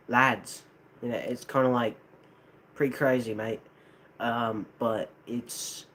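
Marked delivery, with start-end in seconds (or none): 0.1-0.6 tentative Australian accent. Shown as a demonstration. Testing an accent a viewer asked for, lightly Australian. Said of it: "an Australian accent". 2.8-3.6 tentative, light Australian accent. Shown as a demonstration. Trying the requested accent for chat, lightly Australian. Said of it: "an Australian accent".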